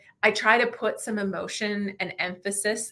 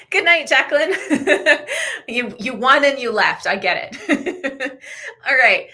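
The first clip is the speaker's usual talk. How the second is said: laughing; 6 semitones higher, 7 dB louder than usual. Real, not acted. Laughing as the winner leaves.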